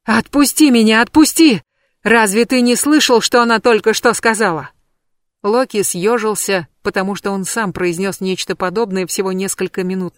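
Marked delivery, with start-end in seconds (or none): 0.0-4.7 higher, louder, yelling to be let go; a witch fighting free, shouting; struggling shout. Acted. Witch fights her captor, loud struggling shout.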